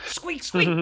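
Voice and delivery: loud rat-man squeak; high-pitched squeaky voice. Acted. Rat man calls to the party, squeaky and loud. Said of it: "He's got a very high-pitched voice".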